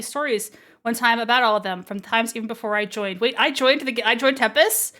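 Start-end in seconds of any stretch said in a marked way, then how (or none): 3.2-5.0 louder double-take, rising at the end; surprised. Real, not acted. Player reacting to joining the guild, surprised. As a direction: blurt it out in disbelief. Reacts to story news with disbelief.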